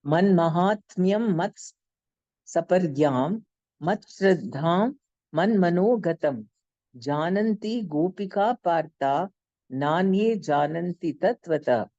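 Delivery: slow, measured Sanskrit chant; verse recitation. Shown as a demonstration. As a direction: intone the verse slowly and reverently.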